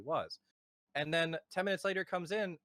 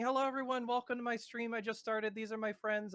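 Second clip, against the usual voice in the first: mock screamed greeting; 8 semitones higher than usual. Intruding streamer greeting his audience among strangers, mock screaming. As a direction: imitate a streamer crying out a greeting in one high run. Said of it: "started screaming".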